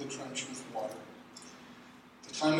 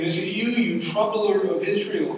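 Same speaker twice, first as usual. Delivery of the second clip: accusing; 5 semitones higher, 6 dB louder than usual. Acted. Ahab accuses Elijah, voiced.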